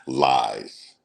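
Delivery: low, drawn-out dismissive lies; diva brush-off. Retold or imitated. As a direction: imitate him waving it off like a diva. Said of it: "What is he, a diva?".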